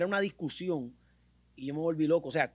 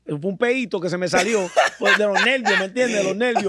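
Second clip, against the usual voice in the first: laughing; 5 dB louder than usual. Real, not acted. Laughing through embarrassing story.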